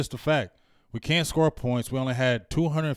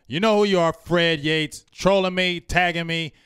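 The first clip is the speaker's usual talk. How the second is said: irritated call-out; 4 semitones higher, 4 dB louder than usual. Real, not acted. Calling out a troll by name.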